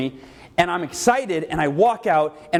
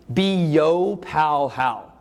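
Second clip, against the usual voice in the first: proud mom; much slower than usual. Retold or imitated. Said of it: "She's all proud of herself".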